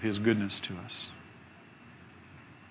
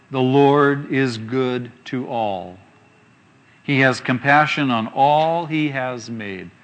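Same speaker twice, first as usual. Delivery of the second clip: scripture reading; slower than usual. Acted. Preacher reads a psalm to the congregation, slow and solemn. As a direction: read the verse out slowly with weight.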